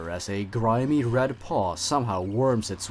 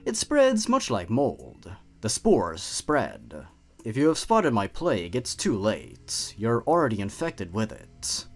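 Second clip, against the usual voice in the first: teasing, menacing hidden creature; sinister creature voice; 4 semitones higher, 3 dB louder than usual. Acted. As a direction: toy with the listener like a predator. Creature narrates as poison.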